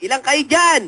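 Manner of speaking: high, demanding mock questioning; interrogating healer. Healer questions the possessed medium, mock stern demand. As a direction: demand an answer from the spirit.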